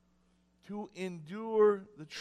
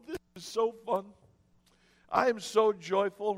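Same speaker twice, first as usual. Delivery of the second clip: sarcastic. Retold or imitated.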